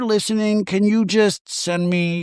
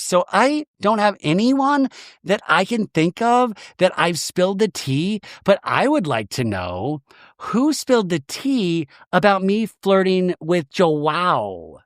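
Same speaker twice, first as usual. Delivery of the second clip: higher, drawn-out mock Brittany; Brittany impression; 3 semitones higher than usual. Recapper voicing Brittany on the boat, a higher, drawn-out coy voice. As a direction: play her coy and slow at the end. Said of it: "she goes".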